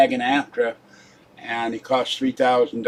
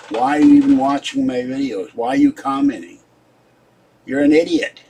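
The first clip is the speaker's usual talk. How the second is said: exasperated; 3 semitones higher, 4 dB louder than usual. Real, not acted. Scolding trolls who comment.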